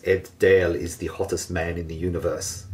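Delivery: hint of an Austrian accent, like a muscle-bound film star; Arnold Schwarzenegger accent. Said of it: "She sounds more like Arnold Schwarzenegger there".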